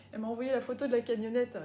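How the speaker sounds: ordinary delivery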